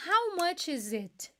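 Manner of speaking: slow model question. Shown as a demonstration. Teacher pricing a bottle for students, slow model line. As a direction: ask it slowly as if in a shop. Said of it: "vamos supor que eu fosse comprar essa garrafa".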